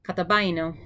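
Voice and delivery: Katabaino, clearly sounded out as ka-ta-BAI-no; Greek word said slowly. Shown as a demonstration. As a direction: model the word Katabaino for the class to repeat. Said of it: "here we go".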